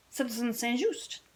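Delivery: softly, under the breath; said very quietly. Acted. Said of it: "he said very quietly".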